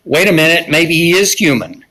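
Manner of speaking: mildly sarcastic mock realization. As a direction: quote it with a touch of sarcastic doubt. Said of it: "it was a sarcastic line".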